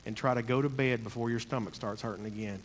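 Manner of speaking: put-on a light Jamaican accent. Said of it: "in his Jamaican accent".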